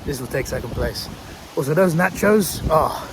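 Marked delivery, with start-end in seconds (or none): 1.6-3.1 strained, hoarse and loud; losing voice, rasping out the words. Real, not acted. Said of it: "I'm losing my voice".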